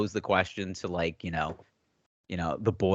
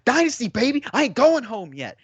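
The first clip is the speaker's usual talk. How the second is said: high, loud imitation of a gamer's victory scream; The Dynasty, screaming; 5 dB louder than usual. Imitating a Madden player celebrating a comeback, mock screaming. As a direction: holler it like a hammed-up champion's boast. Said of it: "running around the arena screaming".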